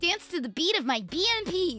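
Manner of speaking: high, playful game-heroine imitation. Streamer quoting Overwatch amid laughter, high playful mock catchphrase. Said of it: "That's like an Overwatch quote".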